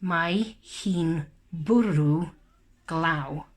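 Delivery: slow and clear, word by word; slow read-along. Shown as a demonstration. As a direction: read slowly for children to follow. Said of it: "Let's read the sentence".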